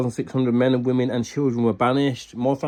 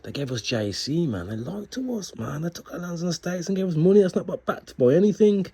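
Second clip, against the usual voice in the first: imitated outraged thoughts; 2 semitones higher, 4 dB quieter than usual. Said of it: "I'm thinking".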